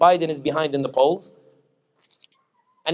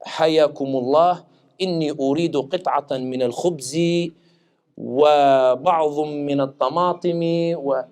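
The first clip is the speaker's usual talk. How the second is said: slow, poetic formal Arabic; formal Fusha; slower than usual. Retold or imitated. Chinese visitor ordering bread in formal Arabic. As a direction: recite it like a classical scholar. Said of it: "he spoke the best Fusha".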